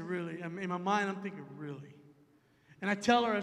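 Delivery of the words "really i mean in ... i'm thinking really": low, very soft inner thought; muted disbelief. Retold or imitated. Tired man thinking to himself, quiet low disbelief. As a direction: say it under your breath, unimpressed. Weary private thought, retold.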